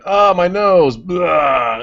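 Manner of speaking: high, loud squealing cartoon voice; South Park character voice. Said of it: "the guy's like".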